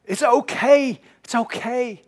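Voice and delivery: husband comforting his crying wife, tenderly; gently soothing. Retold or imitated. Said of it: "what we need is a permission".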